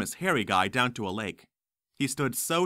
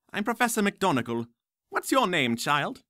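put-on stern old witch; 7 semitones higher than usual. McGonagall introduces herself.

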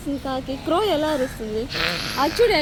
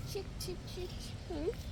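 put-on soft, higher chirping sounds for a child; bird chirp imitation; 4 semitones higher, 19 dB quieter, slower than usual. Shown as a demonstration. Parent shows a toddler how birds chirp, soft chirping. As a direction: chirp like a little bird, gently. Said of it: "birds చూడు ఎట్లా చీపింగ్ చేస్తున్నాయో".

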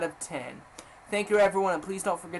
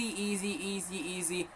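soft; 8 dB quieter than usual. Shown as a demonstration. Chanting easy parts of game.

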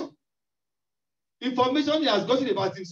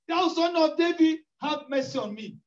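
higher-pitched, pleading blind man crying out; louder crying plea; 4 semitones higher than usual. Acted. Blind beggar begging Jesus, loud crying plea. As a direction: cry it out for mercy, rising then fading. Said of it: "He became more crying".

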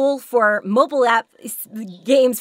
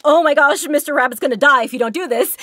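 mock panic; 3 semitones higher, 4 dB louder than usual. Shown as a demonstration. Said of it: "It's like".

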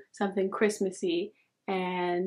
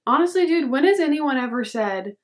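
exclaiming; 5 semitones higher, 5 dB louder than usual. Real, not acted. Excited rant.

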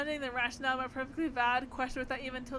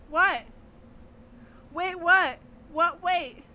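shocked; 5 semitones higher, 10 dB louder, much slower than usual. Acted. Shocked reaction, loud.

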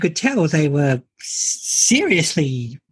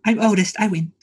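mock triumphant, pitched up at first; gleeful boast; 4 semitones higher than usual. Voicing Pearl's pride at being oldest, mock gleeful. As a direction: crow playfully, as if winning a contest. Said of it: "she seems very excited about that".

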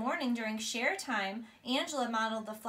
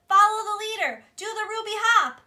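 cheerful call; 10 semitones higher, 13 dB louder than usual. Acted. Teacher calls out to class.

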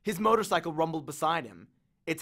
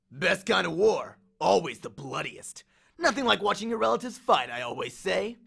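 lightly voiced cocky war god; swaggering Ares, amused; 2 semitones higher than usual. Ares grins at Percy's accusation, lightly cocky. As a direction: toy with the hero, a touch of swagger.

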